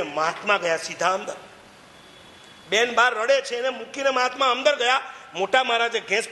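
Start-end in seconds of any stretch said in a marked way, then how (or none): none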